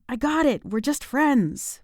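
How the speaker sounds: high, loud frustrated outburst; shouting. Acted. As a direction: yell it in exasperation. Annie's imagined scream at Ryan.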